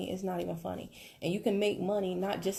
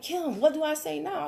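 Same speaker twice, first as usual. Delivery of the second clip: higher, helpless question; clueless student; 8 semitones higher, 3 dB louder than usual. Retold or imitated. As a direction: play the lost rookie asking for help. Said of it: "they be like".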